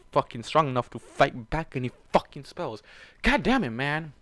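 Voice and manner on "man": ordinary delivery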